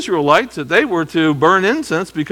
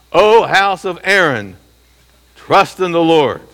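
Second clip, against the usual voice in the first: worship leader call; 2 semitones higher, 4 dB louder than usual. Shown as a demonstration. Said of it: "the worship leader".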